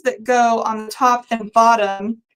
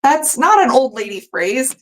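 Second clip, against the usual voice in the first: indignant protest; 2 semitones higher than usual. Retold or imitated. Defending her phrase to her friends, mock indignant. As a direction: pretend to be offended, defending yourself. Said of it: "I was like".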